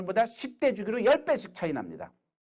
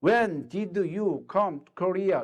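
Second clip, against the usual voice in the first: slow, clear English phrasing; slow model answer; much slower than usual. Shown as a demonstration. Teacher acting out answering an American friend slowly. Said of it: "미국 사람이 있어요".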